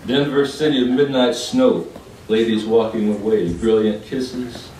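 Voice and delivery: rolling list-like verse delivery; poem recital. Acted. Poet recalling people and places in Denver, rhythmic recital.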